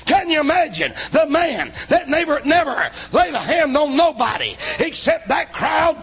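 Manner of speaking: full-force preaching. Acted. Preacher thundering to the congregation, full force. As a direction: preach it out to the whole church.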